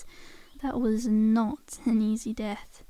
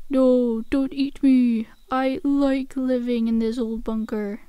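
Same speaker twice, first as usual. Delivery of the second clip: mock human impression; 4 dB louder, slower than usual. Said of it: "does a killer human impression".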